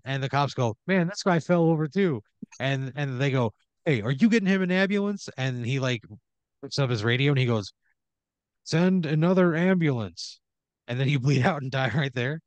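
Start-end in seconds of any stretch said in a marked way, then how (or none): 0.9-2.2 lying cop. Acted. Cop voiced in GM story. 3.8-5.3 alarmed bystander. Acted. Crowd member voiced in GM story. 8.6-10.4 cop on the radio. Acted.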